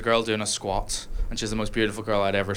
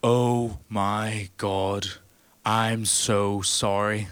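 very slow, drawn-out sorry from the big man; slow apology; much slower than usual. Retold or imitated. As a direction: stretch each word like a gentle giant. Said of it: "he goes".

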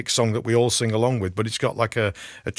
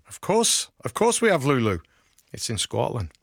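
put-on Scottish accent. Radio host celebrating a singer on the bill, mock Scottish accent. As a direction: have a playful go at a Scottish accent. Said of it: "That's my Scottish accent for you".

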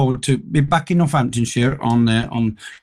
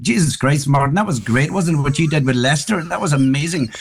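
put-on Northern Ireland accent; 2 semitones higher than usual. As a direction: chat up the football manager in a mild Northern Irish accent. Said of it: "I just put this Northern Ireland accent".

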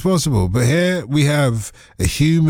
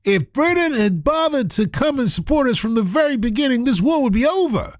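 put-on higher American accent as Trump; higher American accent, lightly like Trump; 7 semitones higher than usual. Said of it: "you can do American accents as well".

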